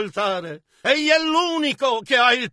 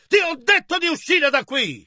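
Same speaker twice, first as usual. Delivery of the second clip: higher-pitched retold angry order; brusco rifiuto; 4 semitones higher than usual. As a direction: send the visitor out, voice raised in pitch. Prisoner orders the governor out. (rifiuto brusco, tono più alto)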